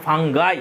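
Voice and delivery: ফাঙ্গাই said clearly, ending in a long "ai"; correct pronunciation. Shown as a demonstration. Teacher correcting a common mispronunciation for the class, saying ফাঙ্গাই clearly. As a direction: stress the final "gai" of ফাঙ্গাই. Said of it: "এটা ফাঙ্গি উচ্চারণ হয় না".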